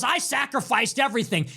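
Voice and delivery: a quoted cry of sacrifice, shouted; mock shout. Retelling Dan's claim to have sacrificed everything, mock shout. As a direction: shout it like he's boasting of his sacrifice. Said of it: "He goes".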